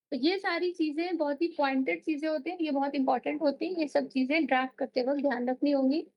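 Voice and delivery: rapid, hurried explanation; too fast. Real, not acted. Lecturer rushing through drafting points for students, speaking too fast. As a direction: rattle through the points at speed. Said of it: "You're speaking too fast".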